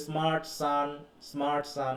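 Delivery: "স্মার্ট সান" in measured, repeated beats; rhythmic phrasing. Shown as a demonstration. Teacher showing students the beat of alliteration, rhythmic phrasing. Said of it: "একটা তাল আছে".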